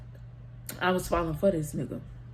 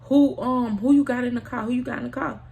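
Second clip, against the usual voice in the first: raised, higher voice calling him out; mock confrontation; 5 semitones higher, 5 dB louder than usual. Ex-girlfriend at the car door, confronting him, raised mock anger. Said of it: "and she like".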